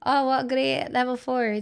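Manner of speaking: put-on Irish lilt; Irish accent. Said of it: "thank you in an Irish accent".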